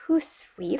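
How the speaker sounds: "huswi" said HOOS-weef, with a long oo; medieval pronunciation. Shown as a demonstration. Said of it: "how the word was pronounced".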